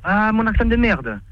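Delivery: slow, drawn-out sarcastic repeat; mocking echo. Real, not acted. Insulted man answers the prank caller, mocking. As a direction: throw the insult back, dragging it out.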